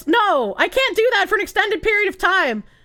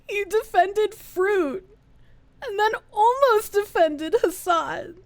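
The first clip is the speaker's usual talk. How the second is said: mock melodrama; 3 dB quieter than usual. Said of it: "Give that woman the Oscar".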